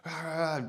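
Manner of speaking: imitated dog barking. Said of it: "uncontrollably barking".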